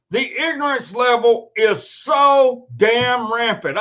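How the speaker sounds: slow, hammered-out indignation; a fed-up man ranting slowly at the internet; angry rant. Real, not acted. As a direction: spit out each word in disgust. Ranting at online posts.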